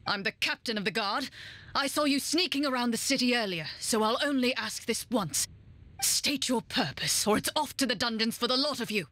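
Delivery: lightly voiced stern captain; suspicious guard captain. Captain challenging suspected sneaks in the city, mildly stern.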